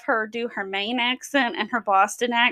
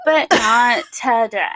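sorority vocal fry; fry through the words; 6 dB louder than usual. Retold or imitated. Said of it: "I'm doing the, a lot of vocal fry".

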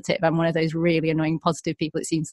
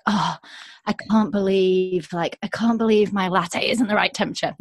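mock complaining. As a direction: mimic a petty, negative moaner. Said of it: "really negative, that are like".

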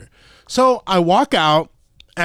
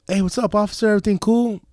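higher-pitched, easygoing hello; friendly greeting; 5 semitones higher, faster than usual. Retold or imitated. Driver to officer at his window, friendly and higher. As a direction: greet him lightly, as if all is fine.

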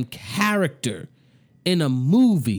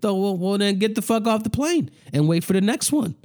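exasperated rant; 6 semitones higher, faster than usual. Real, not acted. Angry rant at passenger.

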